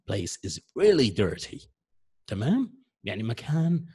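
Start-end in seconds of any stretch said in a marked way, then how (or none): 0.1-1.7 slow, even example sentence with no extra feeling; slow plain example. Shown as a demonstration. Teacher to students, slow plain model sentence. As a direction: read the sentence slowly and neutrally. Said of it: "لما نشوف مكان".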